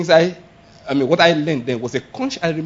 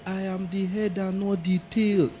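mock confession; 2 semitones higher, 10 dB quieter, slower than usual. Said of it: "He say".

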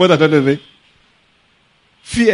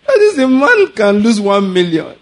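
laughing; 5 semitones higher, 3 dB louder than usual. Real, not acted. Laughing at the memory.

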